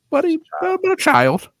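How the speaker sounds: high, loud, squeaking through laughter; cracking up. Real, not acted. Telling friends the embarrassing punchline, cracking up. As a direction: barely get the punchline out for laughing.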